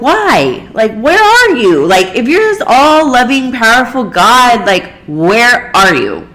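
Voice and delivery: anguished plea to God. Retold or imitated. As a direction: cry out at God, hurt and accusing. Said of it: "And I'm just like".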